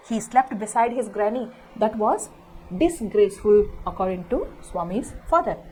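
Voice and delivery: deliberate storybook reading for a class; story read-aloud. A narrator's reading. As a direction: read each word out slowly for pupils. Teacher reads story text aloud.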